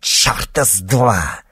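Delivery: slow, loud snarl; bare your teeth and spit it out; snarling refusal. A narrator's reading. Cornered witch snarls her refusal at Nikita. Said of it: "ощерилась ведьма".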